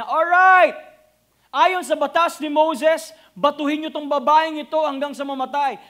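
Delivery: loud pretend pronouncement; a preacher voicing an imagined harsh Jesus; mock stern verdict. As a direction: hand down the sentence loudly.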